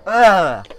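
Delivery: pained groan of cringe; secondhand embarrassment. Real, not acted. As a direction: groan like you can't watch. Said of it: "Okay, I just cringed right there".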